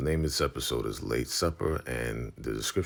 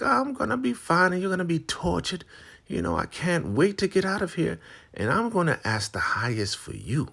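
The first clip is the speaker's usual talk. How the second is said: very high, loud taunting voice; gloating Marva; 11 semitones higher, 4 dB louder than usual. Retold or imitated. Marva taunting Lacey, high and gloating. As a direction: sneer at her rival. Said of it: "She's like".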